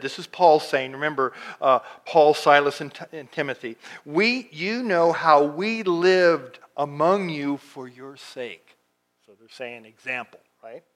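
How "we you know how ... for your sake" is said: slow, deliberate Bible reading; measured pulpit reading; scripture reading. Acted. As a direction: read the verse out slowly, weighing each phrase. Reads scripture aloud.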